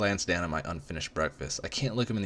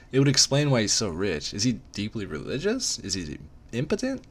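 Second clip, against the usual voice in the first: higher, racing wild guesses; frantic musing; 5 semitones higher than usual. Acted. Narrator panicking over his secret, higher frantic musing.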